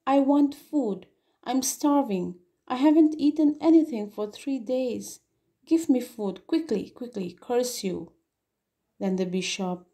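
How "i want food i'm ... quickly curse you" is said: a starving convict snapping for food; angry hoarse demand. Acted. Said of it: "The convict said angrily, okay, hoarsely".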